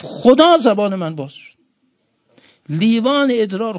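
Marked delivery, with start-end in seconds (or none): 0.0-0.6 high, loud sobbing cry. Retold or imitated. Father weeps and cries out to God, high sobbing cry. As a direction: wail it through tears. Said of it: "با اون گریه و با اون وضع گفت".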